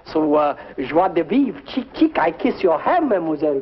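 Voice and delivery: put-on flirt in a hammy French accent; bad French accent. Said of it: "a very bad French accent".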